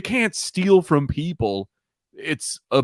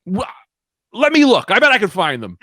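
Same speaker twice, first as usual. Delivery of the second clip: higher, falsely helpful offer; fake innocent helpful voice; 8 semitones higher, 4 dB louder than usual. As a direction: sound innocent, like you just want to help. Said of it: "I go".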